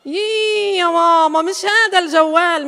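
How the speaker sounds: put-on child scolding mother about her old phone; exasperated child. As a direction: stretch the yii out like a fed-up kid.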